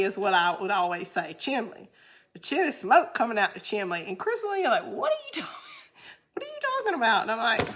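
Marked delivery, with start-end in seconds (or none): 4.9-7.2 high puzzled mimic of husband; hammed-up bewildered boyfriend; mock confused husband.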